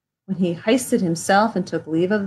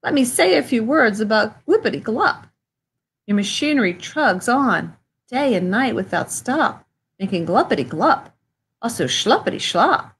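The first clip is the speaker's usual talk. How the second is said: Lorax voice. Acted. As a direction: fuss at him about the smoke. Lorax rants at the Onceler.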